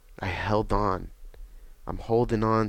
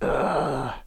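agonized groan; 5 semitones higher than usual. Retold or imitated. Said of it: "just in agony".

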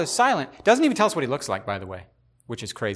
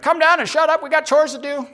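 high, loud irritated yell; annoyed monks; 13 semitones higher, 6 dB louder than usual. Retold or imitated. Fellow monks yell at the floating joyful monk, loud and annoyed. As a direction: shout him down from the rafters. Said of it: "And they're like".

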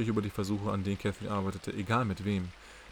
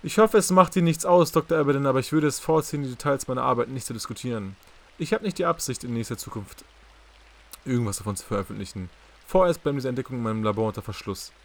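louder and higher, firm, barely holding back anger; controlled anger; 3 semitones higher, 7 dB louder than usual. Acted. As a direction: push back hard but keep it polite. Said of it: "doch sie bezwang ihre Gefühle". (gereizt und laut, mühsam beherrscht)

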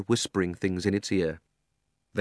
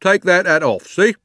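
loud, raised voice of authority; stern; 8 semitones higher, 8 dB louder than usual. A narrator's reading. Policeman ordering the hat removed, stern and loud. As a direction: order him sternly, like a pompous constable. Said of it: "said the policeman sternly".

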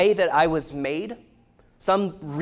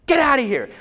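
reenacted yell, much higher and louder; angry shout; 9 semitones higher, 8 dB louder than usual. Father throwing fighting boys out of the room, shouting. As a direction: order them out at full volume. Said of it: "And I, like".

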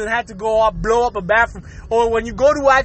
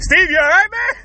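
calling out; 5 semitones higher, 4 dB louder than usual. Acted. Friend calling through bathroom door.

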